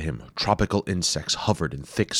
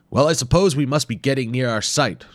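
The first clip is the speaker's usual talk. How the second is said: higher, louder worried reasoning; fussy professor; 8 semitones higher, 6 dB louder than usual. Acted. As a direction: think it through nervously. Wimple reasons.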